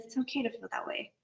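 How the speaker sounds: a gentle inner voice saying "It's okay to feel that way"; soft compassionate voice. Retold or imitated. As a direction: hush it like calming a scared friend. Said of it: "It just says".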